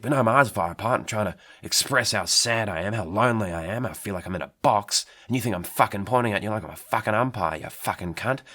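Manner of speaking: heated, rising rant; angry rant. Acted. Fish ranting about being misunderstood.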